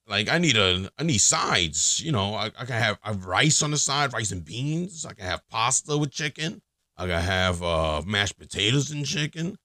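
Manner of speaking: lightly voiced Italian-American guy; a hint of Italian in the food names. Man listing sides for his chicken, light Italian accent. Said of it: "I'm making a guy Italian".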